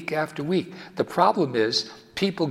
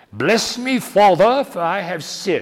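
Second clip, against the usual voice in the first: loud, fake, disguised English accent; 4 semitones higher, 7 dB louder than usual. Man recounts confessing while hiding his identity from the priest: put-on English accent. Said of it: "I developed an English accent".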